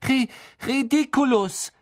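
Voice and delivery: high shouted spell with stammered start; Neville. A narrator's reading. Neville charging at Snape, calling out. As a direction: stumble once, then cry the spell out. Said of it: "rief er".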